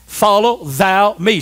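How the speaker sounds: each word spaced and emphatic; slow declamation. Acted. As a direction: say it slowly for the congregation to echo. Leads congregation in repeating verse.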